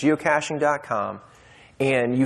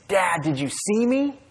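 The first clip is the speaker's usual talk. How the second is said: put-on proud child; 7 semitones higher, slower than usual. Child proud after jump.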